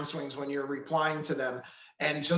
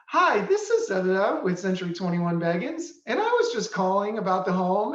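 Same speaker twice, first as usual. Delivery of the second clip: nervous phone voice; 2 semitones higher, 3 dB louder than usual. Retold or imitated. Coach imitating an agent answering a phone call, lightly nervous. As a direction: imitate the agent losing her practiced tone on the call. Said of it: "completely different than everything we had just practiced".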